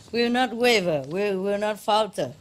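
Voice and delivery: half-laughing mock battle cry; rally the crowd, tongue in cheek; roaring rallying speech.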